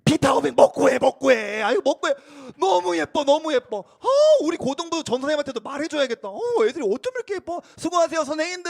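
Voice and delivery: high, excited doting elder; hammed-up delighted fussing of a church elder; gushing church deaconess. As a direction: gush over the youngsters, urging them on. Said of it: "이런 권사님들 가끔 계신다".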